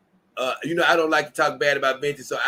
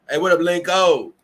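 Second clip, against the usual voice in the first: loud, higher shout-out; big loud hello; hearty greeting; 4 semitones higher, 7 dB louder than usual. Real, not acted. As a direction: hail a friend who just showed up. Greeting a chatter.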